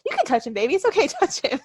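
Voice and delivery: lightly voiced easygoing husband, breaking into a laugh; mock encouraging husband. Imagined husband cheering his wife on at a strip show, lightly voiced. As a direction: egg her on, laughing at the end. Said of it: "He'd be like".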